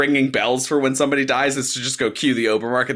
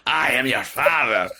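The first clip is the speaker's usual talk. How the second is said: Darth Vader voice; 3 semitones lower than usual. Pretend. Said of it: "Why am I doing a pirate voice?".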